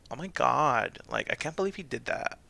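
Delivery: lightly put-on Valley Girl gossip; a hint of scandalized Valley Girl; American Valley Girl. Shown as a demonstration. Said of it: "American Valley Girl".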